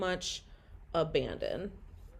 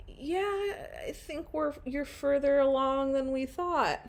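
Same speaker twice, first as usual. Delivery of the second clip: chirpy technician; 8 semitones higher than usual. Retold or imitated. Quoting the ultrasound technician.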